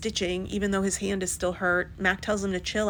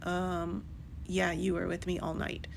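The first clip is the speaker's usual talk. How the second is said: dazed zombie; 8 dB quieter than usual. Retold or imitated. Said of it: "She's like a goddamn zombie".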